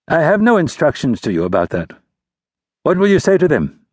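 probing, suspicious prince. A narrator's reading. Prince voiced higher.

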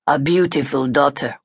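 put-on light German accent, read lightly; a hint of a German colonel's accent. A narrator's reading. Colonel complimenting the host's daughter, lightly German-accented. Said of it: "He had a heavy accent".

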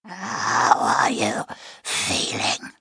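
slow, whispered slurred question; a beast whispering slowly. Acted. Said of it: "deep and slow and slurred".

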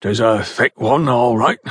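understated, grudging agreement; conceding. A narrator's reading. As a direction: admit it mildly, in a countryman's way. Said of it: "conceded the foreman".

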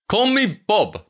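put-on high Slavic-accented voice; strong Slavic accent. A narrator's reading. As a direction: offer the nickname in a thick Slavic accent. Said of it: "in a strong Slavic accent".

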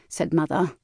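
ordinary delivery

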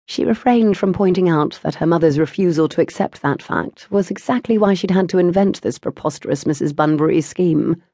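ordinary delivery, nothing marked

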